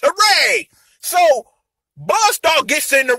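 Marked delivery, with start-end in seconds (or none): 0.0-0.7 higher-pitched little hooray; mock cheer. Villain making his way towards Pandora's box, mock cheer. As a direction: throw out a high mock cheer.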